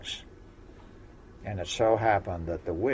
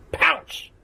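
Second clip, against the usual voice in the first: sudden high loud cry; storyteller springing the pounce; 10 dB louder than usual. A narrator's reading. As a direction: leap out with the word.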